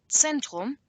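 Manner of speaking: Zentrum slowly, as its own word; split-up long word. Shown as a demonstration. Teacher splitting it into two, slow separate Zentrum. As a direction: set Zentrum apart as the second half. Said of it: "it's good to split it into two".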